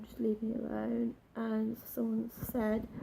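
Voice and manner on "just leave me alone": half-whispered plea to be left alone; softer plea. Retold or imitated. Crying in the toilets, asking them softly to leave. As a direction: repeat it much softer, fading. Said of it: "I'm like".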